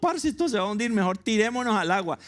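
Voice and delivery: high-pitched, urgent sailor; mock alarm. Sailor urging shipmates to jump off the sinking ship, mock alarm.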